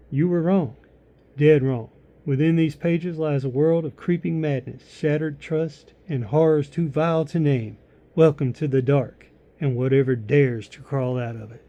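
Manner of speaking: ominous blurb reading; dramatic reading. Acted. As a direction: build menace through the blurb. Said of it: "I'm gonna read it to you".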